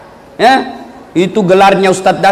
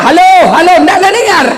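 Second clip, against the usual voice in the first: hammed-up shouting into the phone, a bit higher; mock yell; 9 semitones higher, 3 dB louder than usual. Villager yelling into the upside-down phone, laughing. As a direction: call halo halo laughing into the wrong end.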